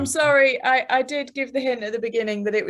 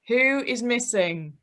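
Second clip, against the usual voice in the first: slow, each word spelled out; Who is missing, slow and fully separated; over enunciating; slower than usual. Shown as a demonstration. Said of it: "I will say once more".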